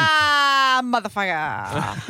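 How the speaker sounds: long, drawn-out yell of dismay; mock anguished yell. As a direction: yell it, stretching the curse out. Mock cry at early wake-up.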